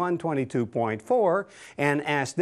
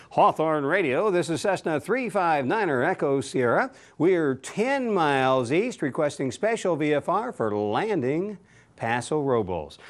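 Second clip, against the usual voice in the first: pilot's radio voice. Shown as a demonstration. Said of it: "you'll use your pilot's voice here".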